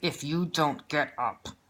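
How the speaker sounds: tight-jawed anger spoken through clenched teeth. Showing how a parent sounds with a child's public tantrum: tight-jawed angry voice. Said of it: "that voice, that tight jaw happens".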